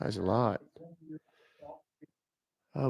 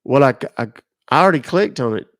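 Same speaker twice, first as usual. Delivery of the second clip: exasperated; 4 dB louder than usual. Real, not acted. Caller exasperated at repeated question.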